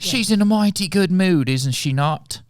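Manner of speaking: P=A; British accent. Acted. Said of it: "give her a little bit more of it".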